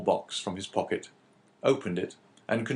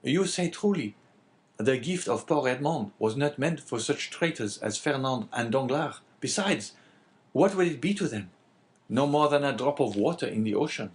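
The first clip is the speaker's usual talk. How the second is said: higher-pitched innkeeper character voice; lightly voiced Caderousse; 6 semitones higher than usual. Innkeeper answering the abbé, lightly voiced character. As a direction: lightly play the talkative innkeeper.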